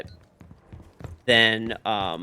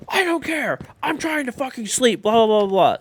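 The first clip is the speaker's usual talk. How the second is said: high whiny mock of a rude guy, louder on the blahs; mocking grumpy passenger; 12 semitones higher, 6 dB louder than usual. Mocking the man in front on the plane, high whiny voice. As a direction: squeal it like a brat who can't be bothered. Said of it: "And the guy's like".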